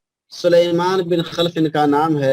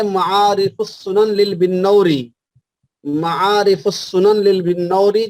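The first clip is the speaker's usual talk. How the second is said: slow dictation. Shown as a demonstration. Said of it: "اس کا حوالہ لکھ لیجئے".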